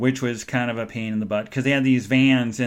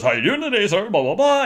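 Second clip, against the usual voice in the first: elevator operator; 7 semitones higher, 3 dB louder than usual. Retold or imitated. Imitates old-timey elevator operator chattering.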